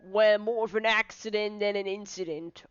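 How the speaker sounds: lightly voiced inspector, measured report; police inspector. Inspector briefs Layton on the accident, official. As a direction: explain the incident with official weight.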